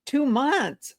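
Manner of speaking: bright, interested echo; upbeat repeat-back to a seller. Shown as a demonstration. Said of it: "So you repeat".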